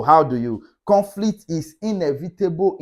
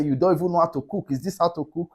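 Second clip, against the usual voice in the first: attacking; 3 semitones higher, faster than usual. Shown as a demonstration. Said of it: "Instead of you just attacking".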